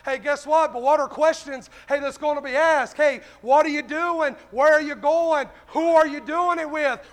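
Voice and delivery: forceful, driving sermon delivery; fervent preaching. Real, not acted. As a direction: press the congregation with punched questions. Preaches to congregation.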